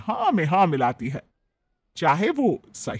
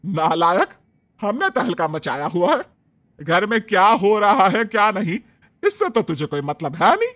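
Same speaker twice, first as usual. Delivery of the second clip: furious mother scolding her son, louder; angry scolding; 6 dB louder than usual. Acted. Mother-in-law Shobhna scolds her son Raman, louder and furious. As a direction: snap at a useless son. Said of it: "गुस्से से तिलमिला उठती है".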